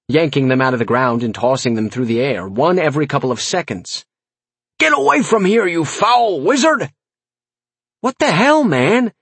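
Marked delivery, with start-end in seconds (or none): 4.8-6.9 high, strained banishing cry; frightened outrage. A narrator's reading. Farmer throwing potatoes at a wizard, outraged cry. Farmer drives off supposed warlock. 8.0-9.1 high, indignant snap; snapped. A narrator's reading. Narrator dodging the farmer's potatoes, snapping. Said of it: "I snapped".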